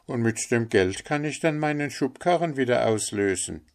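a hint of an eager innocent; humble little Hans, grateful.

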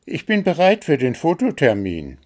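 high, quick little bird. A narrator's reading. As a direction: pipe it up high and eagerly as a bird. Bird's line in read story. (hohe, schnelle Vogelstimme)

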